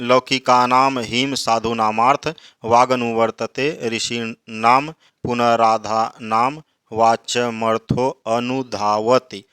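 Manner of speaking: slow, measured Sanskrit verse chanting; verse recitation. Acted. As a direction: intone each word of the shloka slowly. (धीमे, लयबद्ध श्लोक पाठ)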